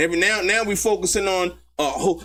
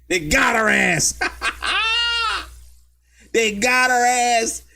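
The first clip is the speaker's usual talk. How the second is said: gloating laughter; 3 semitones higher, slower than usual. Real, not acted. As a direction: crow over the witness getting caught. Gloating over caught witness.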